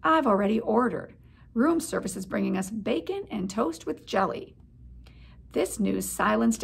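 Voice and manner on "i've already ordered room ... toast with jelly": grandly. Acted. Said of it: "could not resist adding rather grandly".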